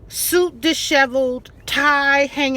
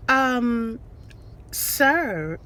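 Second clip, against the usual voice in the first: monotone professional; 4 dB quieter than usual. Retold or imitated. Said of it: "She kept this monotone, professional voice".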